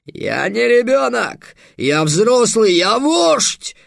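put-on high indignant yell of a childish chieftain. Alkhazab yells at Trix that he is a grown chief, high and indignant. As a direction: shout it like a stung child. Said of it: "завопил Алхазаб".

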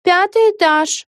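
short, dismissive answer; curt reply. A narrator's reading. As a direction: toss it off coldly. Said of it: "бросила ведьма". (бросила небрежно)

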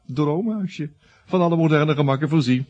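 scornful echo with a laugh; laughing at the sales pitch; mocking repeat. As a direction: repeat the blurb as if it's a joke. Mocking the house description.

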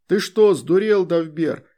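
furious yell into the phone; shouting orders over battle. Acted. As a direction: yell at the gunner who missed. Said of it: "заорал Красуляк".

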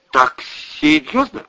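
breathless, alarmed question; hushed worried voice; sudden worry in a breathy ask. Acted. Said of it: "встревожился армеец".

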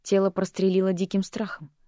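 ordinary delivery, nothing marked

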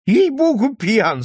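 mock-laughing accusation rising high; hilarity without a real laugh; amused drunken exclamation. A narrator's reading. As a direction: tease him, tickled and tipsy. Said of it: "снова засмеялся Рогачёв".

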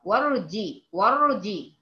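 وارجي slowly linked as "war-jii"; hamza dropped. Shown as a demonstration. Teacher shows the hamza is not pronounced, linked. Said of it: "نطقت هنا ال-، الهمزة؟ لا، ما نطقتش".

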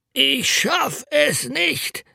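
high, slow hungover wail; despairing cry. A narrator's reading. Road mender to the narrator, high despairing cry. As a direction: cry out that he can't manage. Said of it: "rief er".

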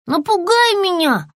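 high, urgent cry of напугай меня; shouted plea. Acted. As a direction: call it out eagerly. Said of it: "закричала она".

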